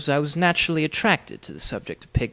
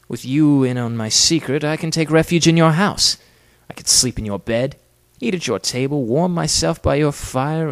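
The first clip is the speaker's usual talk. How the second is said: louder, mounting excitement; eager persuasion; 3 semitones higher, 7 dB louder than usual. Acted. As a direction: press the plan on him eagerly. Fugitive eagerly pitches his plan.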